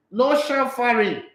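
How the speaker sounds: slow, amused repeat broken by a laugh; chuckling mock rule; laughing mockery. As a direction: laugh at the silly ban as you repeat it. Laughing while mocking Qatar rule.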